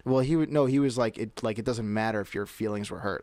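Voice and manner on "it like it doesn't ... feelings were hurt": imitated indifference, trailing softer; dismissive. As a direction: brush it off as the uncaring professor. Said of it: "Like, that type of".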